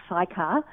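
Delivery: "Sychar" said as SIGH-kar; chosen pronunciation. Shown as a demonstration. Caller showing how she's decided to pronounce the village, chosen pronunciation of "Sychar" as SIGH-kar. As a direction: say "Sychar" with a long "eye", then "kar". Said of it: "that's how I've chosen to pronounce it".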